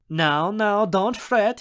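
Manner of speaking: high, fatherly coaxing; soothing. Acted. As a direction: coax her out of a sulk. He soothes the sad girl.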